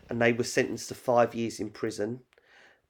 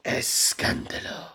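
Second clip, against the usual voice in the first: put-on spitty telenovela Spanish accent, slow; spray it out in a Spanish accent, slowly; spit take. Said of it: "Oh, just spat everywhere".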